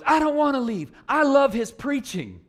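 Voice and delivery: put-on high, loud, slow little-girl plea; toddler voice. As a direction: plead like a two-year-old who wants to stay. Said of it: "Then the girl goes".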